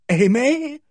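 high, rising appeal; anguished cry. A narrator's reading. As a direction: cry out her name, pitched right up. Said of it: "Owen cried".

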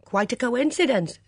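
cheering up. A narrator's reading. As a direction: brighten after a sulk. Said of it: "cheering up".

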